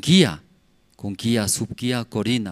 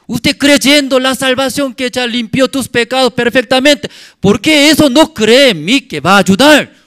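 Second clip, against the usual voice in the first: loud, high-pitched scolding; regaño de Dios; 11 semitones higher, 9 dB louder than usual. Acted. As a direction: exhort them forcefully, as God rebuking doubters. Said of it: "Regañar era". (regaño a voz en grito, tono alto)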